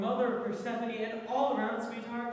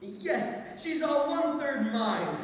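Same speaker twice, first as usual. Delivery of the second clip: gloating; 7 semitones higher, 5 dB louder, slower than usual. Acted. Hades gloats loudly.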